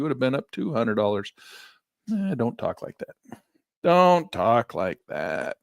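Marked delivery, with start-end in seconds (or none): 2.1-3.4 slower, light tut-tut telling off; half-joking "don't say that"; playful mild reproach; mild scolding. Pretend. Mock scolding of Elaine. 3.8-5.6 slow, louder, mock-stern repeat; hammed-up stern warning; drawn-out scolding. Repeats the scolding more emphatically.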